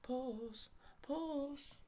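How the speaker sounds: high sing-song puss call, rising each time; calling a cat. A narrator's reading. Saucepan man peers around calling for the lost cat.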